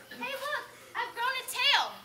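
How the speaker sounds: put-on high-pitched child's yell; high, alarmed yell. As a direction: cry out at a startling discovery. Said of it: "She yells".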